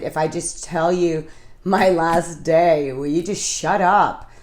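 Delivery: fed-up, drawn-out retort; retold exasperation. Worn down by her nagging, retold exasperated bargain. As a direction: spell it out slowly, fed up.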